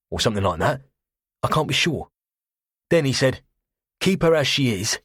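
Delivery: put-on cockney accent. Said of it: "saturnine cockney".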